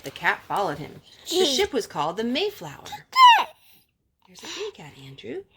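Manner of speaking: gentle read-aloud storytelling voice; story narration. Acted. Mother reading a picture book to her children, gently.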